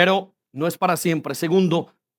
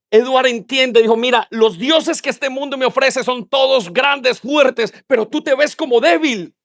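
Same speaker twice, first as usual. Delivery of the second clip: raised-pitch sermon delivery; impassioned preaching; 5 semitones higher than usual. Acted. Preacher telling the congregation of Edward's discovery, impassioned.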